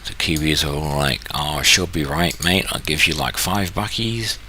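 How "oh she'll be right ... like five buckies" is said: lightly put-on Kiwi accent, drawn out; mock a laid-back New Zealander. Kiwis shrugging off the market open, mock New Zealand accent. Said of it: "My New Zealand accent".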